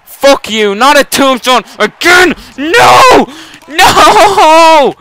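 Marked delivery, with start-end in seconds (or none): 1.8-4.9 loud, high shouts of protest; real furious shouting. Real, not acted. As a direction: yell at the screen. Opponent lands another tombstone.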